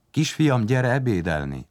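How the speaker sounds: high-starting mother's call. A narrator's reading. Mother calls her son to lunch, calling out. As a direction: call your little son to the table. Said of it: "anyu hangját hallja".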